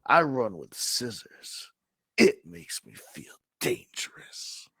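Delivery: lightly voiced old lady, airy at the end; a hint of a sly old woman; Olga's reply. Olga teasing Omar, light and airy. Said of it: "Olga says to Omar".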